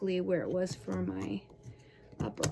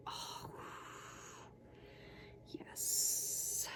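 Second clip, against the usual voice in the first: whispered yes; 12 dB quieter than usual. Real, not acted. Rolling the tender heel.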